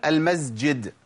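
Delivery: المسجد said as "al-mazjid"; the common slip, z before j in المسجد; mistaken z. Shown as a demonstration. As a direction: buzz the s of المسجد into a z. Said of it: "في ناس بتقول".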